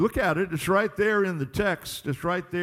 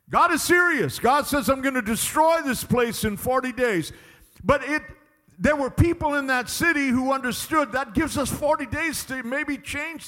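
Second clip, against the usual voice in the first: higher, urgent pulpit delivery; full-force preaching; 6 semitones higher, 3 dB louder than usual. Real, not acted. Preacher warning of forty days to destruction, forceful preaching. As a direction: drive the warning home.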